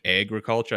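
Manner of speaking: "agriculture" opening with AYG; Minnesotan vowel. Shown as a demonstration. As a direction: say "agriculture" with a Minnesotan long A before the G. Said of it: "just the A G sound".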